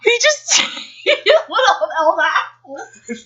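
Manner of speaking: high, loud stunned outburst; can't believe what you read; shocked disbelief. Real, not acted. Shocked by the plot twist.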